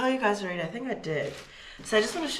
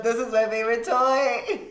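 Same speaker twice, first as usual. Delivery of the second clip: high, giggling dog voice; laughing; 3 semitones higher than usual. Pretend. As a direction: say it through a laugh.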